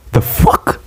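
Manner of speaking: very high, airy squeak; mock disbelief.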